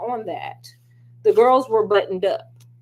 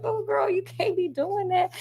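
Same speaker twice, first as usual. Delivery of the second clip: Mina scolding; 9 semitones higher, 4 dB quieter than usual. Retold or imitated. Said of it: "And Mina like".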